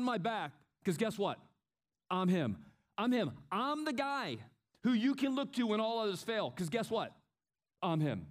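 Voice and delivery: chest-out boast, building hype then dropping off; boastful athlete. Retold or imitated.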